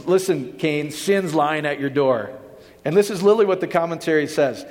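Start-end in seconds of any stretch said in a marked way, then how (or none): 0.1-2.3 slow, ominous mocking of strict teachers; mock stern warning. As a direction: warn Cain like a fear-driven preacher, slowly. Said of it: "here's how they teach this".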